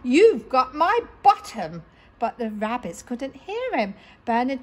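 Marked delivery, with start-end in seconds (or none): 0.0-1.8 high, loud call across the beach; shouting. Acted. Robot calling to rabbits at sea, high loud shout. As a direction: shout after them far away. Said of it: "he shouted".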